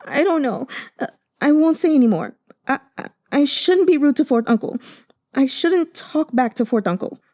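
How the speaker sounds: high, fast tearful mumbling; whimpering. Acted. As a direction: mumble through tears, shaken. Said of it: "sobbed like a whimpering cub".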